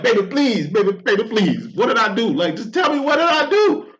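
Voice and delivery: rising, pleading whine of a dumped man; mock desperate begging. Dumped man begging his leaving woman, hammed-up whining plea. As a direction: beg her not to leave, hammed-up. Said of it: "you keep sweat".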